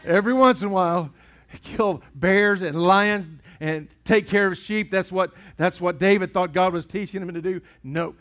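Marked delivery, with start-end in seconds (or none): 0.1-4.9 hammed-up Southern accent. Shown as a demonstration. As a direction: lay the Southern accent on thick for a laugh. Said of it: "that accent comes out".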